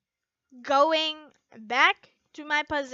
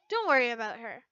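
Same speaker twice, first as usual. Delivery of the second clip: reassuring. Acted. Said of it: "Gray said in a reassuring voice".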